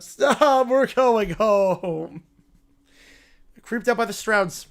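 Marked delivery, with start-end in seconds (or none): 0.0-2.2 whiny spoiled royal. Acted. Spoiled character complains about the flight, whining. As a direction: whine like a pampered little royal who hates travel.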